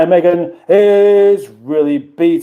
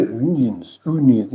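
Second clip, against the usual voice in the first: South African accent; 4 semitones lower, 5 dB quieter than usual. Shown as a demonstration. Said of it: "That sounds more like, uh, S-, South, South African".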